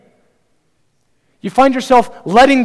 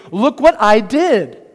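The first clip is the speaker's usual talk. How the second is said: puffed-up, self-important bragging; proud declaration, voice lifted mid-boast; self-exalting boast. Acted. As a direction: brag as if everyone should know you. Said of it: "You hear it in Paul's tone here".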